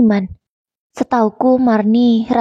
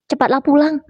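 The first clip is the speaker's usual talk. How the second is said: higher, charged plea to hurry; emotional urging; 6 semitones higher than usual. A narrator's reading. Kuntet urging his grieving friend on the phone, emotional. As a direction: push him to come home now. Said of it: "Nadanya terdengar emosi".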